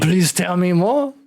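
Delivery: eager interest. Acted. Eagerly asks about tentacles.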